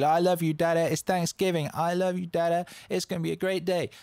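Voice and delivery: put-on high, excited little-kid voice. Kid waking dad on Thanksgiving morning, excited. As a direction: gush like an overjoyed child at wake-up. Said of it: "He wakes me up this morning all excited".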